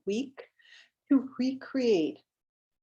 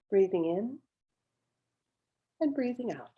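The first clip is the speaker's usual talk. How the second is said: guided meditation. Real, not acted. Leads a centering meditation.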